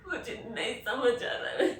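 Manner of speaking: loud, sobbing, words broken by gasps; breaking down crying. Real, not acted. Cannot convince herself the lover is gone, sobbing. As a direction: choke the words out through sobs. Breaks down over the lost love.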